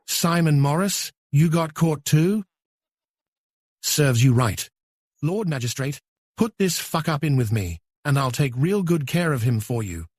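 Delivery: gloating. Acted. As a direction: taunt him, savoring it. Gloating prisoner mocks Simon.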